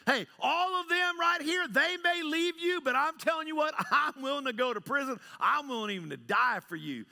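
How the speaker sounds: high, insistent boasting, easing at the end; big, bad and bold. Peter vowing to die for Jesus, big and bold. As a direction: swear loyalty with loud bravado. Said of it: "you were big and bad and bold".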